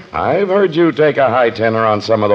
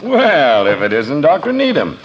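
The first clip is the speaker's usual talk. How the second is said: hearty greeting; 5 semitones higher than usual. Acted. Greeting the preacher with put-on cheer.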